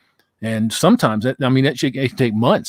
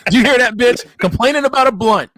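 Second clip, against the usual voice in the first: laughing; 11 semitones higher, 4 dB louder than usual. Real, not acted. Mocking laugh at blunt mishearing.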